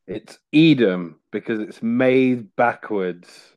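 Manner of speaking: "Edam because it's made backwards" drawn out slowly as a deadpan joke; slow punchline. Shown as a demonstration. Telling his cheese pun slowly to the podcast hosts. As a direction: lay out "Edam" and "backwards" slowly, waiting for the laugh. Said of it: "Did you not get it?".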